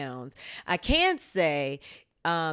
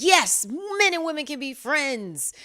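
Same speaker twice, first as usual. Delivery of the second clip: higher, louder, slow emphatic declaration; imitating Aladdin; 10 semitones higher, 7 dB louder than usual. Host quotes co-host's firm answer, higher, louder and slow. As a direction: play the co-host stating it as fact. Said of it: "Aladdin was like".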